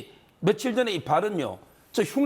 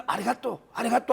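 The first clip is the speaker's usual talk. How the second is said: mock Japanese accent. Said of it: "일본 사람 흉내를 내면서".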